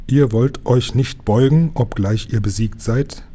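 ordinary delivery

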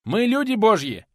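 teacher crying out to a hidden robber, loud and high; shouted out. Acted. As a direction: yell it into the dark, proud and firm. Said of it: "выкрикнул преподаватель".

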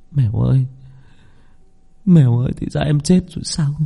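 high tearful murmuring; grieving murmur to a dead girl; mumbled grief. Acted. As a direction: mourn her under your breath, voice lifting. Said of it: "Miệng tôi lẩm bẩm".

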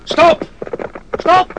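a very high, very loud shout to halt; shouted stop. Acted. Barak ordering his men to halt, full shout. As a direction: bark the order to stop them dead. Commander halting men on the run.

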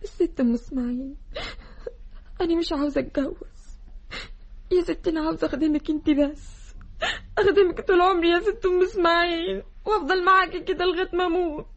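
tearful begging. Acted. Girl tearfully begs the lady not to make her marry. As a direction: beg through tears to stay a servant.

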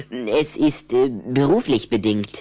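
confiding in a whisper; secretive whisper. Acted. Rüdiger hinting at Anna's new diet, whispered.

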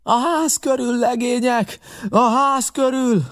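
high, sustained yelled command; captain's shout. A narrator's reading. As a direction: call out orders across a battlefield. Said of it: "kiáltotta a kapitány". (elnyújtott, magas kapitányi kiáltás)

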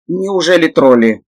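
high, scared little gremlin voice; frightened. A narrator's reading. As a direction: ask it trembling with fear. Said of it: "испуганно задрожал гремлин".

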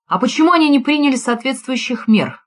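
a hint of provocation; challenging. A narrator's reading. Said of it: "с вызовом спросил я".

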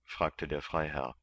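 plain reading voice

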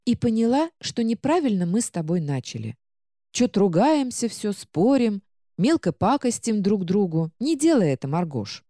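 lightly voiced calm book; a conciliatory little book. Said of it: "спокойным голосом".

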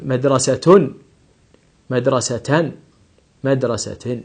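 "مدرسة" as madrasatun, madrasatan, madrasatin; nunation demo. Shown as a demonstration. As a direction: sound each tanween ending of مدرسة. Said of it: "وأقول".

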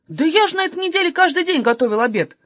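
indignant. Acted. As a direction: complain as if treated unfairly. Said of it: "возмущался Юнатан". (возмущённо, на повышенных тонах)

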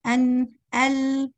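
أن then ال, very slow and drawn out; comparing ن and ل. Shown as a demonstration. Teacher demonstrating the two sounds: slow drawn-out أن, ال. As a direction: hold each sound long to compare. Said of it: "تقارني بالمخرج".

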